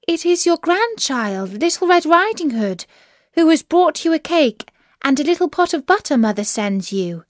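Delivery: put-on high-pitched child's voice; little girl. A narrator's reading. Child answers through the door.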